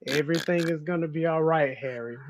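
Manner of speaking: playful woo-sah calming chant; mock calming mantra. Friend soothing the ranting host, mock calming chant. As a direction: soothe him like a joking therapist. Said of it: "Phil, please calm me down".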